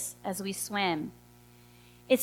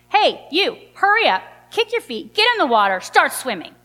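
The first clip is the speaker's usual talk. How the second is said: higher, curt imitation of a bossy guide; brusque order; 4 semitones higher, 3 dB louder than usual. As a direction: bark it out like an impatient instructor. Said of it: "he's not nice about it at all".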